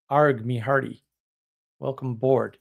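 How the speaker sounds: light pirate voice, barely put on; a hint of a hearty pirate greeting; pirate talk. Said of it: "It's Talk Like a Pirate Day".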